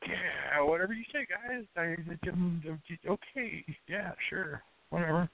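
quiet, dismissive sarcasm; sarcastic. Acted. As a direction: brush it off with mock agreement. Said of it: "He says sarcastically".

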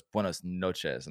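slow, deliberate "Buenos noches"; correcting reply. Retold or imitated. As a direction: spell it out gently, slowly. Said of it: "and he goes".

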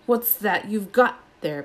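a stern master catching a pupil out; Snape looking for trouble. Acted. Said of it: "looking for a reason to tell them off".

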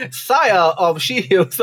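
slow mock-royal proclamation; a hint of ceremony, drawn out; royal herald. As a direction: lightly play a court announcer, words stretched. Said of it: "old royal intros where you just".

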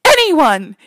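high, loud mock plea of a child; calling for help. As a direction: call out to anyone like a helpless little girl. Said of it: "she starts calling".

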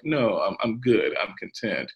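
lightly acted, settled brush-off after the alarm; calm reassurance. Paul in jail answering worried people, mildly acted calm reassurance.

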